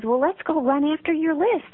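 a hint of a cheerful storybook frog; Frog suggesting. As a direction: give Frog an eager upbeat read.

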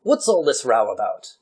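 a firm question in mock English accent. Card player asking about the cheering, English accent. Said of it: "I subconsciously got it correct".

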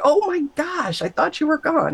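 high, shaken exclamation; startled. Retold or imitated. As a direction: caught off guard, breathless. Startled by God appearing.

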